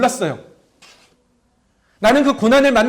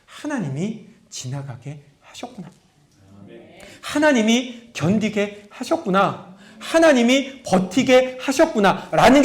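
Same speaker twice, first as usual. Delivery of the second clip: grateful realization; slower than usual. Retold or imitated. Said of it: "아".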